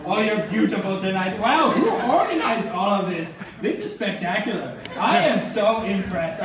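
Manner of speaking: hammed-up anchorman, stretched words; mock-impressed anchorman opening; horrible Anchorman impression. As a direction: do a bad Anchorman, playing to the crowd. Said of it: "enough of my horrible Anchorman impression".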